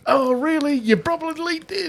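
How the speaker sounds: a hint of the Adelaide woman answering him. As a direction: lift into a lightly voiced, pleasantly surprised woman.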